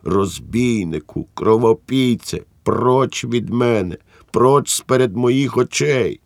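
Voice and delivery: wife shouting at her husband to get out. Acted. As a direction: hurl it at him, drawing each word out. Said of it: "випрямилася й крикнула".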